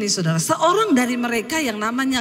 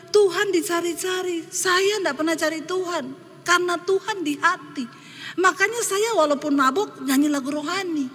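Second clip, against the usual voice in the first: higher-pitched retold jeer, lightly scoffing; mocking; 3 semitones higher than usual. Drunk man mocking the preacher's search for God, mildly mocking. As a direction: imitate a scoffer's boast. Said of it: "Dia mengejek saya".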